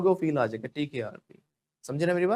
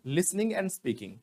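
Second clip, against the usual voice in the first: slow recap; 3 semitones higher, 4 dB quieter, much slower than usual. Shown as a demonstration. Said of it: "पहला क्या बोला था मैंने?".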